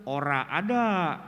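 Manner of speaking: slow Betawi pinggiran ora; dialect quote. Retold or imitated. Quoting a fringe Betawi speaker, slow rural dialect. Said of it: "Dia bilang".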